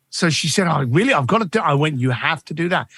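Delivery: usual speaking voice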